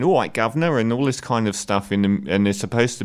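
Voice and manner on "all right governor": put-on Cockney accent. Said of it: "So you've got people going".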